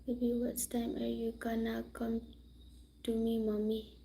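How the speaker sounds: whispered question; soft hushed whisper. Real, not acted. Whispering to her baby on stream.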